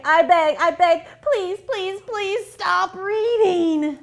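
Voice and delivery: pleading monster, slowing to whine; whiny monster begging nicely. Acted. Monster begs kids to stop.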